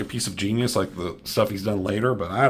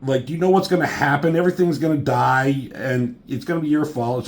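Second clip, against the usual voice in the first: mild mock yell, raised pitch; half-raised voice, scolding someone in imitation; imitated yelling; 4 semitones higher than usual. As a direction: retell an angry telling-off with some force. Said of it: "Nightcrawler's yelling at him".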